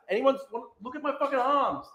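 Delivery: mock a preening guy flexing; a hint of a smug streamer showing off his arms; Hassan impression. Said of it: "That's literally Hassan".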